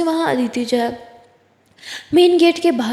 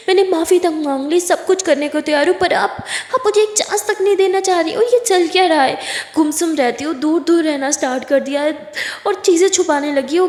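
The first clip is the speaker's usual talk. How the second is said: higher-pitched, frustrated appeal; exasperated pleading; 4 semitones higher than usual. Acted. Kiran confronting distant Aditi, exasperated. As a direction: demand answers with rising urgency.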